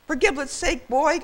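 high, exasperated granddad; hollering. A narrator's reading. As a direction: holler at the boy in frustration. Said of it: "old Granddad hollered".

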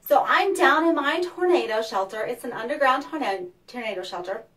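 echoey underground room; cave echo. Real, not acted. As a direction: voice echoing in a cellar. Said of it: "That's why I sound like I'm in a cave".

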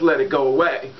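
normal talking voice

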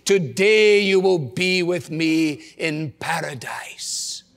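hushed, slow whispered promise; whispered words of Jesus from the cross. Acted.

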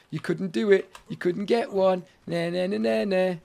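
playful mock taunt; sing-song taunting nah nah; teasing game voice. Game taunting the player, a mild mock sing-song tease. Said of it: "It's teasing as it's going".

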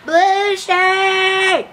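high, loud cracking yell; voice cracking shout. Acted. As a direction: call out till the voice cracks. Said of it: "Your voice cracked".

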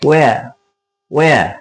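where as "weh-a", no h or r; silent r. Shown as a demonstration. Teacher models where for viewers, r and h dropped. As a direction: say where twice, separately, ending on a vowel. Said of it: "R pronounce হবে না".

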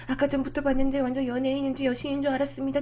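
fast nonstop chatter; imitating a pushy stranger's quick spiel; rattling on. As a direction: fire the words out without a breath. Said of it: "다다다다다다 뭐 이렇게 얘기를 해요".

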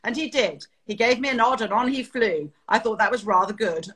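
a hint of unruffled British airman; clipped British accent. Pilot recalling the enemy flying off, clipped British accent. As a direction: lightly imitate a calm, clipped British chap. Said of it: "so calm the way he said it".

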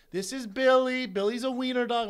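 a hint of a sweet pet-segment host; TV adoption lady. News lady introduces an adoption pet to viewers, lightly put-on presenter voice.

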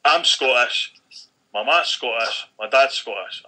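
mock belligerent insistence, punched out; retold aggression. Troublemaker insisting to the organiser he's Scottish, mildly aggressive imitation. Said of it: "he was being incredibly ag-, aggressive".

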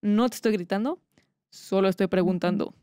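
forced calm, held-back voice; measured, controlled questioning; pretend calm. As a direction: insist calmly that you are not shouting. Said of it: "muy calmada".

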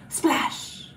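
hushed, voiceless splash; whispered splash. Pretend. Teacher dunking a kitty in paint for children, whispered. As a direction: whisper it like a little sound effect.

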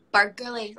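"burglary" with Scottish vowels and sounded r. Shown as a demonstration. Player demonstrating the word teammates request, Scottish "burglary". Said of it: "they get us to say".

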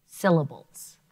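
SYL-la-bles said in three beats; clapped-out syllables. Shown as a demonstration. Teacher modelling syllable beats. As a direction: chant "Syllables." beat by beat for the class. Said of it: "closed syllables".

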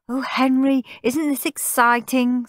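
high, eager goody-goody; high-pitched delighted wonder; excited little brother. A narrator's reading. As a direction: gush like a perfect child. Goody brother thrilled in queue.

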